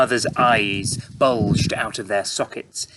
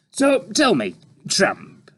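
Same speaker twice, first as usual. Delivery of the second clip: higher, drawn-out mocking reporter; oozing fake praise; sarcastic reporter; 11 semitones higher, 5 dB louder, slower than usual. A narrator's reading. Reporter character.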